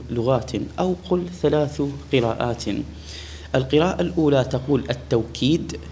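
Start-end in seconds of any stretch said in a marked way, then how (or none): 4.9-5.8 "التوكيد" with a w glide after the ta; pronounced with waw. Shown as a demonstration. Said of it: "بالواو".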